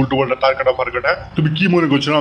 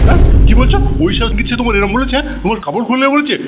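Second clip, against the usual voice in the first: higher, louder, furious disbelief; outraged shout; 7 semitones higher, 4 dB louder than usual. Acted. In-law hears of the son-in-law's insult, outraged shout. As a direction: roar it out in shock and fury.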